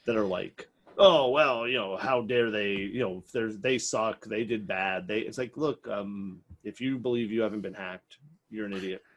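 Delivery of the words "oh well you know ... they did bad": whiny mocking voice; sarcastic mock whine. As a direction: mimic the critics with a sneer. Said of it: "I hope you heard the sarcasm".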